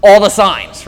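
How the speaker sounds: husband telling his wife to ignore the signs, loudly; insistent husband. Retold or imitated. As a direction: push through, refuse to turn around. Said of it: "I say".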